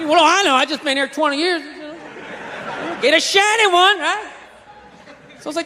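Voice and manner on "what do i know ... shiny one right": redneck grumble fading to nearly nothing; muttered redneck dismissal, trailing away. Acted. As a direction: let each phrase die away, redneck style. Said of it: "that redneck trailing off thing".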